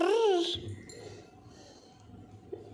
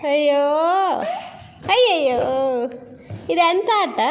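laughing exclaim; 4 semitones higher, 3 dB louder than usual. Real, not acted. Child plays naughty game.

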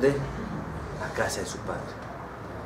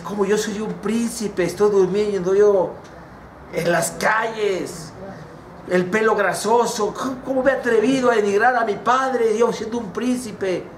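raised-pitch self-reproach; acted dismayed lament; lamenting prince; 5 semitones higher than usual. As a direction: reproach yourself in a higher voice. Prince laments his fallen state.

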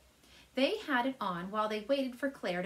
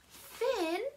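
much higher, startled cry of the name; gasp of shock; 10 semitones higher than usual. A narrator's reading. Kaz gasping at his brother Finn in the bedroom. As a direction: catch him in the act. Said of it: "Kaz gasped".

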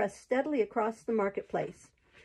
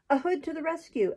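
rallying roar; 6 semitones higher than usual. A narrator's reading. Giant calls outlaws to the rescue, mild roar. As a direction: call the men on with a restrained roar. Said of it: "roared a gigantic man".

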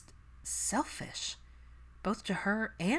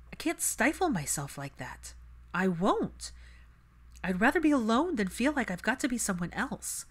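lightly voiced, a touch higher; Hermione's voice; 4 semitones higher than usual. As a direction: candid self-assessment, earnest. Hermione refusing to go back.

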